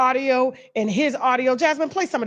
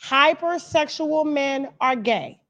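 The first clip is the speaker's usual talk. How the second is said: slow, preachy lecturer voice; Umar Johnson impression; slower than usual. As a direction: deliver it like a solemn proclamation. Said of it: "in the words of Umar Johnson".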